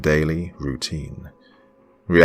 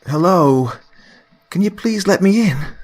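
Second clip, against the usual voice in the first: higher, louder friend's voice; calling through door; 7 dB louder than usual. Acted. Mary calling through the locked door, higher and louder. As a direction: call out to be let in.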